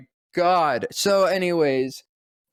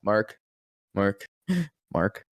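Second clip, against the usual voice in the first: much lower, stern low warning; low Batman scolding; 7 semitones lower, 4 dB quieter than usual. Retold or imitated. Batman scolding Mark Hamill, low stern voice. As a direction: say the name low and firm like Batman.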